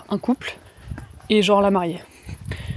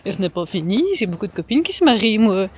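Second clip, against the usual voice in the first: rattled off fast, a bit fed up; exasperated retort. Pretend. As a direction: fire back quickly at the lady. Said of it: "j'ai envie de lui dire".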